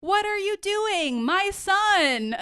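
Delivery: high, slow put-on voice, sickly sweet; Regina's weird voice. Regina protesting so someone overhears, in a weird high voice. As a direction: stretch it out high like a fake-innocent queen. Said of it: "she does, like, a weird voice".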